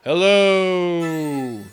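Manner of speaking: loud calling hello; shouting across the room. Pretend. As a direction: call out across a big room. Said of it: "I'm gonna shout across the room".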